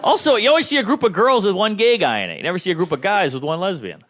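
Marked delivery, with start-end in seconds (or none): 0.0-1.4 a slow, hammed-up Seinfeld observational bit; Seinfeld impression. Comic answering the heckler, slowly riffing in mock Seinfeld style. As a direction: lean into a mock Seinfeld cadence, drawing it out. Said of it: "I sound like a gay Seinfeld".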